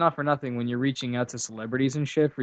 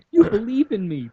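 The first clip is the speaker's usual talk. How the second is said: breathy, higher mock-touched whisper; 8 semitones higher, 5 dB louder than usual. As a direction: whisper it like a fake tearful thank-you. Teasing mock gratitude.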